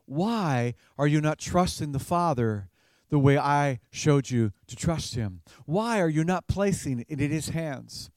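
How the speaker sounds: gentle, non-accusing question; not condemnatory. Shown as a demonstration. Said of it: "doesn't ask it in a condemnatory fashion".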